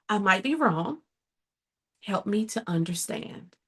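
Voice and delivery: soft, open and humble; humble, curious. Shown as a demonstration. Showing a partner what clarity sounds like, soft and humble. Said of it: "It sounds like".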